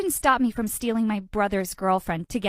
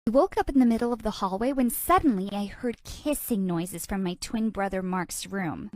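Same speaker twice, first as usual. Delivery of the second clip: ordinary delivery, nothing marked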